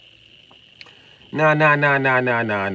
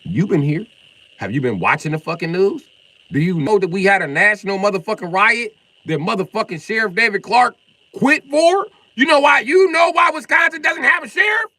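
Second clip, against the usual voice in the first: real furious yelling, higher and louder; angry shout; 9 semitones higher, 9 dB louder than usual. Real, not acted. Streamer angrily yells at a viewer about the riot. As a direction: yell the questions at him.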